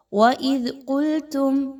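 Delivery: وَإِذْ with the ذ soft, tongue between the teeth; slow demo of وَإِذْ قُلْتُمْ with a gentle ذ; teacher models the soft ذ in وَإِذْ; soft dhal. Shown as a demonstration. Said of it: "دال کو نرمی کے ساتھ پڑھیے".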